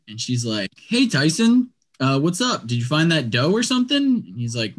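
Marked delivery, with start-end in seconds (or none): 0.9-4.0 higher-pitched mock phone greeting; casual female caller, retold in a raised pitch; imitating woman on phone. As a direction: lift the voice into a lightly imitated woman's hello. Voicing the dog tracker answering the phone.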